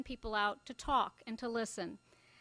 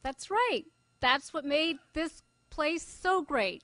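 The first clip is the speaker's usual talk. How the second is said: put-on a light, slow Glaswegian accent, high and louder; Scottish accent; 5 semitones higher, 4 dB louder, slower than usual. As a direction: agree proudly in a mild Glasgow accent. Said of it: "I can do the accent".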